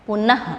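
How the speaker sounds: पुनः said loudly, ending in a half h breath; teacher leading a loud pronunciation drill; loud visarga drill. Shown as a demonstration. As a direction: call out पुनः clearly for students to repeat, half h at the end. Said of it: "जोर जोर से इसको पढ़िए".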